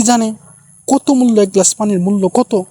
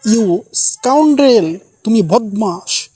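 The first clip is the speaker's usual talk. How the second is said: mock angry outburst; 3 semitones higher, much slower than usual. Teacher demonstrating an angry dialogue for students, mildly indignant. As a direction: act out a touch of anger, stretching the insult. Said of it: "রাগ উত্তেজনা বিষয়ক কিছু dialogue".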